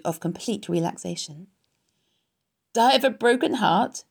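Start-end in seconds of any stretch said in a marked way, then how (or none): 2.7-4.0 lightly mocking, raised-pitch echo; mocking mimicry. A narrator's reading. Rat mocks Wilbur's broken heart, mimicking. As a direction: echo it back with a questioning sneer. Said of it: "he mimicked".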